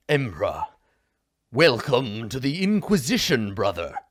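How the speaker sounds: lightly over-enunciated, radio-announcer voice; crisp every syllable like a radio host; mild mock-formal Imperial declamation; over-enunciated High Gothic. Shown as a demonstration. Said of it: "It's just, like, an over-enunciation of words".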